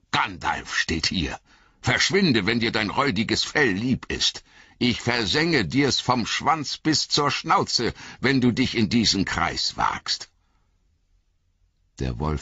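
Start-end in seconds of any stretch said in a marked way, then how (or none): 0.1-10.3 höher und lauter drohend, langsam gesetzt; drohender Gandalf. Acted. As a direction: verscheuch den Wolf mit Strenge. Gandalf droht dem Wolf. (Gandalf droht dem Wolf, höher und lauter)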